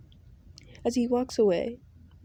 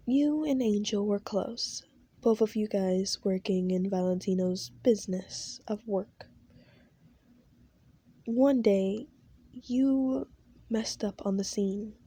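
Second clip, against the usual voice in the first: story narration. A narrator's reading. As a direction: draw the listener into the scene. Narrates a fan scenario.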